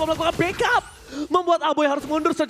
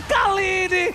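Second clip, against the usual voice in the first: fighting game announcer; 4 semitones higher than usual. Real, not acted. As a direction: call the teamfight with rising excitement. Esports caster hyping a teamfight.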